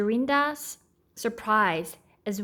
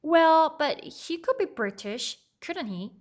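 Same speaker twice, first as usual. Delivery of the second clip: defensive exclaim; 7 semitones higher than usual. Acted. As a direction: blurt it out in defence. Annie defends herself, loud.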